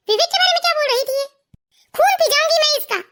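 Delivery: worked-up, indignant rise in the voice; angry scolding. Acted. Wife raging after the mistress's call, angry scolding. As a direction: fume at the caller who hung up. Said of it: "आप इतने जोर जोर से किसे डांट रही हो".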